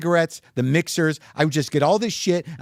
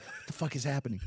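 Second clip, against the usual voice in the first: hushed disbelief; 14 dB quieter than usual. Retold or imitated. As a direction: say it under your breath, baffled. Retold reaction in a sleeping apartment.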